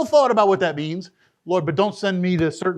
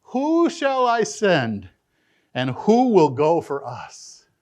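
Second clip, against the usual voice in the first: slow, solemn divine call; voice of the Lord; 2 semitones lower, slower than usual. Acted. Preacher voicing God calling for a messenger, slow and solemn. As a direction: draw out each word like God calling. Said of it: "the voice of the Lord saying".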